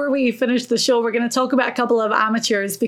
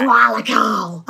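slow mock Aussie Koala Carl; Aussie accent; slower than usual. S0 asked by S1 to say Koala Carl in a more Aussie accent. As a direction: lean into a light Australian drawl on Koala Carl. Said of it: "a bit more Aussie accent on the Koala Carl".

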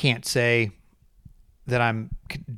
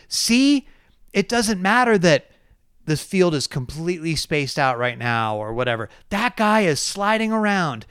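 mock-enthusiastic fan voice, higher; mocking Twitter fans; 4 semitones higher, slower than usual. Host mimicking Twitter fans who defend the race, mock-eager. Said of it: "bend over backwards to say".

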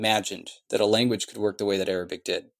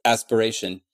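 ordinary talk, nothing marked

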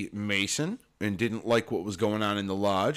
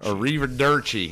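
put-on Tennessee-accented Italian; 2 semitones higher, 4 dB louder than usual. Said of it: "His, his Tennessee accent".

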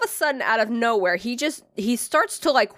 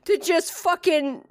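higher, giggling through the words; laughing explanation; 5 semitones higher than usual. Retold or imitated. Explaining to her boyfriend while giggling, pitched up. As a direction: laugh as you explain yourself.

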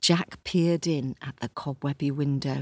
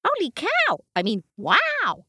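much higher, louder gasp of amazement; amazed donkey; 13 semitones higher, 5 dB louder than usual. Acted. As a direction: exclaim in delight.

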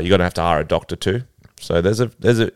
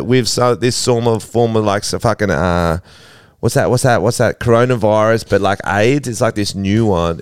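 put-on English accent voicemail. Elizabeth's brother leaving her a voicemail in an English accent. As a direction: ham up an English accent breaking bad news. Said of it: "pre-record a little message in English accent".

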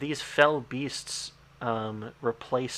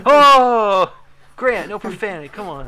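laughing outrage; 8 semitones higher, 14 dB louder than usual. Real, not acted. Mock outrage at a rude joke.

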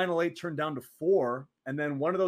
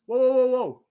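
stopping him; 8 semitones higher, 8 dB louder than usual. Retold or imitated. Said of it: "and he goes".

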